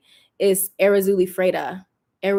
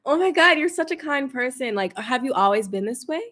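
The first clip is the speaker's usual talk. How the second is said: fake polite thanks; 2 semitones higher than usual. Answering a backhanded compliment in person with fake sweetness. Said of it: "I'm like".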